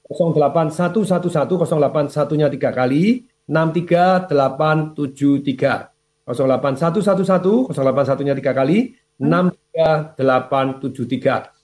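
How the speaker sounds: number read out slowly, with pauses; slow, careful repeat for note-taking; slow dictation. Shown as a demonstration. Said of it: "Saya ulangi pelan-pelan ya".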